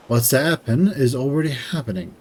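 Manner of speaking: slow ominous quote. Retold or imitated. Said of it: "I said what's gonna happen".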